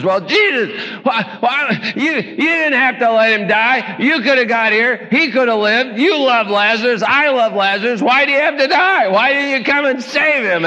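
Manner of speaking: reproachful grieving sister; mild hammed-up Martha; Martha scolding. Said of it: "She says".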